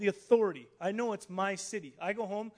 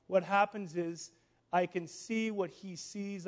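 slow, measured preacher's recitation; solemn declaration; slower than usual. Real, not acted. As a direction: declare it deliberately, word by word.

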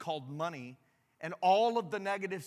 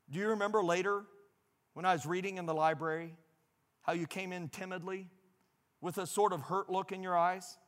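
heartfelt reading. Acted. Reads a father's letter aloud.

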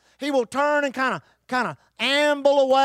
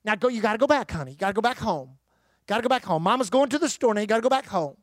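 lady shooing her dog; 4 semitones lower, faster than usual. Retold or imitated. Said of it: "she turned to that dog and said".

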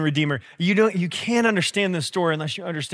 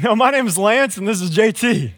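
snappy comeback; 4 semitones higher than usual. Retold or imitated. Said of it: "kinda snap back kinda person".

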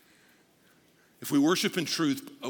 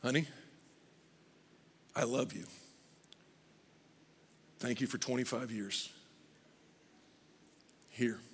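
soft, lower, lifeless delivery; flat anniversary line; 4 semitones lower, 8 dB quieter than usual. Retold or imitated. Husband giving wife roses, flat and soft. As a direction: hand over the roses without feeling. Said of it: "would you say".

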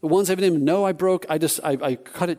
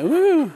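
high, louder "woo"; excited whoop; 12 semitones higher, 6 dB louder than usual. Retold or imitated. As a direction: let out a high little whoop. Celebrates good news from agent.

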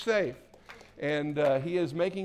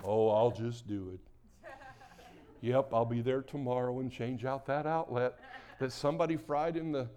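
Alger impression; 4 semitones lower than usual. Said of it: "not really good about asking for help".

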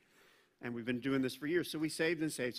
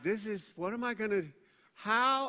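flustered inner voice; 4 semitones higher than usual. Retold or imitated. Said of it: "I talk like this in my brain".

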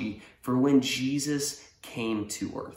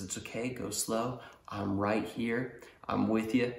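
soft, steady coaching; gently reassuring; 5 dB quieter than usual. Acted. Older brother pushing the nervous rider, softly reassuring. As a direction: talk a nervous learner through it quietly.

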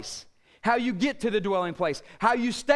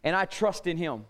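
quiet confidence; 5 semitones lower than usual. Shown as a demonstration. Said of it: "You can say to the Lord".

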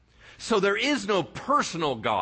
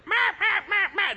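very high, squeaky mock chirps; baby birds chirping. Preacher imitating baby birds in the nest, in very high, squeaky chirps. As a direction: squeak like hungry chicks begging for food. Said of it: "little birdies in the nest are like".

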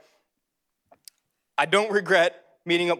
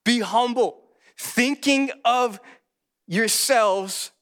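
emphatic scripture reading; 4 semitones higher, slower than usual. Real, not acted. Reads scripture to congregation.

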